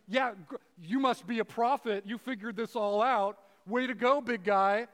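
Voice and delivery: mock him with fake admiration; sarcastic mockery. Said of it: "being sarcastic".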